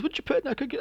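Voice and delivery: lightly voiced sheriff. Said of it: "And he goes".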